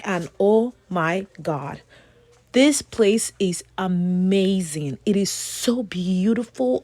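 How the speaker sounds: slow, hushed amazement; whispering in awe. Real, not acted. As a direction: breathe it out amazed. Awed whisper about place.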